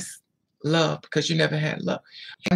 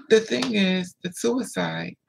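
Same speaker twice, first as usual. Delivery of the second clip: ordinary delivery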